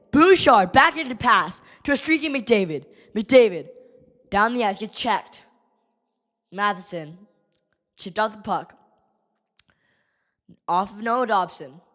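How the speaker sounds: running call of the play; live play-by-play. Acted. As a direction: narrate every pass. Calls play-by-play.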